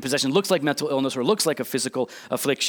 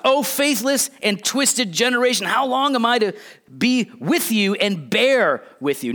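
higher-pitched, aggravated rebuke without yelling; exasperated hard words, pitched up and emphatic; upset Jesus; 6 semitones higher than usual. Acted. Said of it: "Jesus sounds like he's upset".

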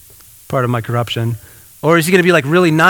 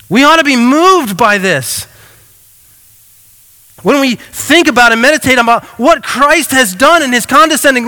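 fervent preaching; 2 semitones higher than usual. Real, not acted. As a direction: drive it home to the congregation. Preaching at full force.

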